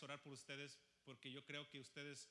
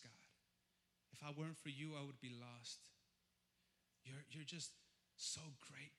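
tender prayer. Acted. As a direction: speak to God like a beloved. Tender prayer voiced to God. (oración tierna y suave)

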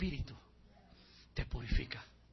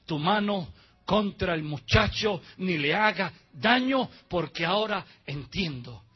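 voice from heaven; 2 semitones higher, 7 dB louder, slower than usual. Acted. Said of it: "Y la voz le dice".

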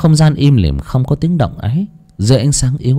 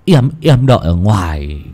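urging; 3 semitones higher than usual. Acted. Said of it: "đoạn hối thúc".

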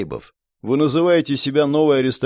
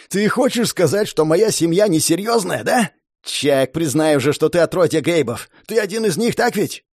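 higher, shouting, swollen with pride; arrogant noble brat, shouting; 4 semitones higher than usual. Acted. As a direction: yell it like a pompous brat. Dors accuses Chak.

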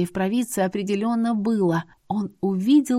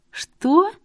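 much higher, louder shocked gasp; stunned disbelief; 11 semitones higher, 5 dB louder than usual. A narrator's reading. Heroine hears she can go home, shocked cry.

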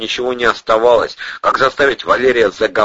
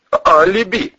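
choking surprise; 11 semitones higher, 4 dB louder, slower than usual. Acted. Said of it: "поперхнулся Украинский".

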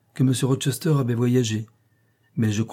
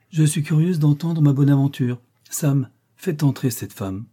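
raised imperious voice, slowing on the order; 5 semitones higher, 5 dB louder than usual. A narrator's reading. Daughter ordering the servant to admit the woman, imperious. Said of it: "la voix impérieuse de Blanche".

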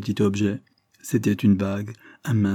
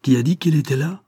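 raised, angry demand; angry cry, louder and higher; angry outcry; 6 semitones higher, 5 dB louder than usual. A narrator's reading. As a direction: snap it back in anger. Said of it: "s'écria d'un ton de colère".

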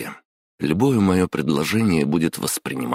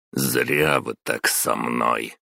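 slow, lower, menacing grind; through the teeth; 3 semitones lower, slower than usual. Acted. Intern warning the boss, slow and through his teeth. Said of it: "процедил я".

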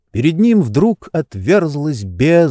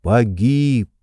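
ordinary delivery, nothing marked

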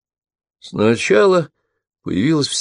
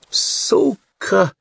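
high pained howl of an insult; loud yell; 12 semitones higher than usual. A narrator's reading. Attacker struck in the cheek, howling a high insult. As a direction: howl it after the punch lands. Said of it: "громко завопил он".

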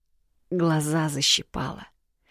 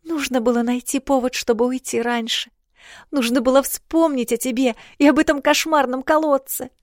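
put-on higher girlish self-reproach; a young sister blaming herself; higher remorseful girlish voice; grieving girl; 9 semitones higher, 4 dB louder than usual. A narrator's reading. Princess regretting delay.

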